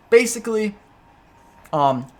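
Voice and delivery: talking while chewing popcorn; munching popcorn. Real, not acted. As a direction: speak around a mouthful of popcorn. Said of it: "I'm eating popcorn".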